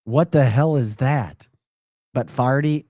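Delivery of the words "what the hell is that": slow, loud opening, mock affronted; mock incredulous retort. Host retelling his comeback to the Texas woman, mock incredulous. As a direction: throw it back at her in disbelief. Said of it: "And I'm like".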